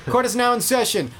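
high, formal court announcement; mock judge. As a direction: announce it like a bailiff. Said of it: "Okay, cool".

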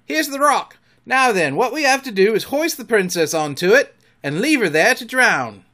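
loud, high Irish pirate voice; Irish pirate cry. A narrator's reading. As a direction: call orders out like an Irish sailor. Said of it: "cried an Irish voice that was Smee's".

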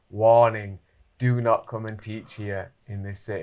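loud punch on the first word, then measured; written warning. Retold or imitated. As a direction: read out like a capital-letter warning. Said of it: "in capital letters, it said".

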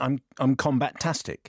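slow imitation of a London accent; mimicking an actor's London accent; mock London accent. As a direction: drag it out in a put-on London accent. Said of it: "not a bad London accent".

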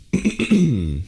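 high throat clear. Real, not acted. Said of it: "my voice is being weird right now".

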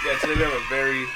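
hype announcer. Acted. Hyping the guest intro.

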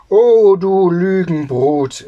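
loud, high, drawn-out outburst; angry call. A narrator's reading. Tailor shouting at his lying sons in anger. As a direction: cry it out slowly in outrage. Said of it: "rief der Schneider".

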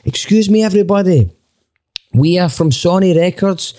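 high, projected mock-official announcer; official announcement voice. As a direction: bluff the tourists like an official from the record label. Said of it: "I'm just like".

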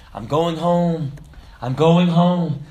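slow, loud, imitated joyful cry; tears of joy. Dying Christian glad of heaven, imitated tearful joy. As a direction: draw it out in heartfelt joy. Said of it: "he was crying tears of joy".

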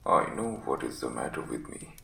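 very low, croaky sick man's voice; croaking invalid. Acted. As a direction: croak it out weakly from the sickbed. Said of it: "was croaking".

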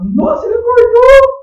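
high, loud, slow gasp of delight; hammed-up amazed exclamation; mock thrilled God. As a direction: play God overjoyed someone woke up. God mocked as thrilled at waking.

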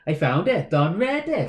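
light Welsh accent, half laughing. Shown as a demonstration. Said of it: "can you give me a Welsh accent?".

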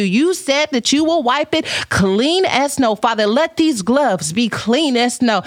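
half-joking church prayer voice; mock prayer. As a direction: pray it like a preacher, tongue in cheek. Mock prayer for gloved hands.

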